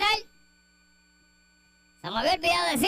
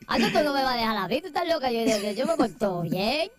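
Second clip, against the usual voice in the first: Joel impression; 4 semitones lower than usual. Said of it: "Así mismito es que habla Joel".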